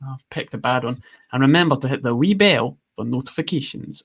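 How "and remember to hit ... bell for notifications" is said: badly faked Scottish accent. Shown as a demonstration. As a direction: attempt a Scottish accent and miss. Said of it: "Oh, that was really bad".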